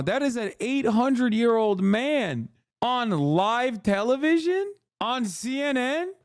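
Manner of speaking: mock shocked squeal. Streamer mocking a crying pundit on live TV, high squealing disbelief. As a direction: shriek your outrage like a scandalized aunt.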